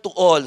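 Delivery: "to all" set apart with firm weight; emphasis on "to all". Shown as a demonstration. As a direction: lean on the words "to all". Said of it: "I want to emphasize the word".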